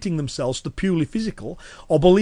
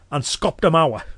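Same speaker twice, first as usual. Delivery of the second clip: Cumbrian dialect. Shown as a demonstration. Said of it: "I gave a phrase in Cumbrian".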